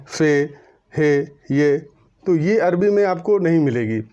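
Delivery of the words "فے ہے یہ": فے، ہے، یہ each ending in "ay"; Urdu letter names. Shown as a demonstration. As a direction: say فے and ہے the Urdu way, on a level tone. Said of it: "جو پروننسیٹ کرتے ہیں". (اردو انداز میں فے، ہے، یہ)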